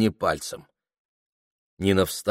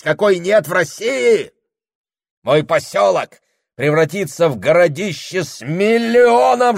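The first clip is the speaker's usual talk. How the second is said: rising from firm and slow to a higher, louder shout; grandiose boasting; 10 semitones higher, 6 dB louder than usual. A narrator's reading. Husband boasting his fame will thunder worldwide, building to a shout. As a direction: swell with pride until it thunders.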